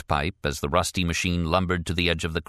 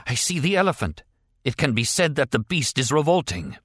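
mad prisoner; 6 semitones higher than usual. Acted. Mad prisoner sees elephant.

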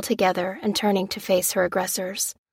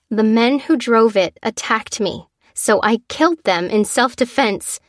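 tense statement; 3 semitones higher, 4 dB louder than usual. Acted. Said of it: "she stated".

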